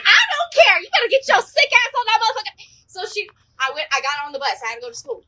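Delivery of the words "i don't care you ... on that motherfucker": loud, high-pitched mock mom rant; raised, hammed-up parental scolding; scolding mom impression. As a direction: imitate a fed-up mother laying down the law. Acts out mom refusing sick kid.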